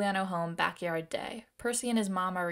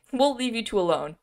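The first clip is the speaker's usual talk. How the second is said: louder, higher mock repeat of the line; 4 semitones higher, 6 dB louder than usual. Reader poking fun at walking away five feet, mocking. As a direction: send up the line with amused exaggeration. Mocks script's five-foot retreat.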